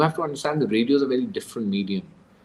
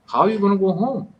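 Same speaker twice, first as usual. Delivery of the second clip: worried question; 9 semitones higher, 4 dB louder, faster than usual. Retold or imitated. Worried driver asks stranded captive.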